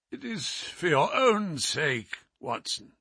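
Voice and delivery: softly croaked, slow; croaking. Acted. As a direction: croak it out weakly. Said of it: "he croaked".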